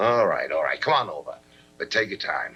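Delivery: low-pitched, resigned agreement; grudging concession. Acted. Husband reluctantly letting wife come over, grudging.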